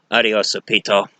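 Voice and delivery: mock goodbye. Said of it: "he grabbed the statue and said".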